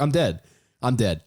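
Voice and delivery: high, panicky mock despair; teen sure he's done for, high and panicky; panicked. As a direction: act like you're doomed. Panicking at police lights.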